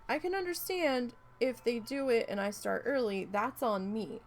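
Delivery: angry rant. Retold or imitated. Complaining about in-laws dumping tanks mid-stream, angry rant. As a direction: vent like you've asked a hundred times. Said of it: "I was so mad".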